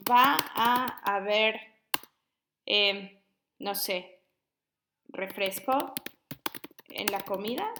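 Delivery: slow, drawn-out haber in va a haber; teacher stretches haber in Va a haber; example phrase, slowed. Shown as a demonstration. Teacher showing students a spelling example, drawn out. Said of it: "como cuando decimos".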